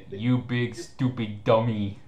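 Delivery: slow, laughing through the insult; can't keep a straight face; giggling mock insult; mocking quote. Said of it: "how he ends this, saying".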